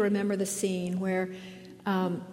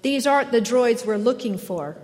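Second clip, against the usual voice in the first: louder call to fellow troopers; 3 semitones higher, 6 dB louder than usual. Retold or imitated. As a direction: call it out to the squad, dazed. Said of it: "The stormtrooper calls to his cohorts".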